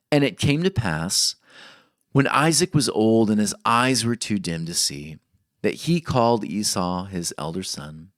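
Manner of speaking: measured, solemn reading of scripture. Acted. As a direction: read the verses with weight. Reads Genesis aloud to congregation.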